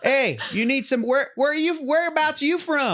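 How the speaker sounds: high, slow mock southern menace; threatening stranger voice. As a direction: play a suspicious local sizing you up.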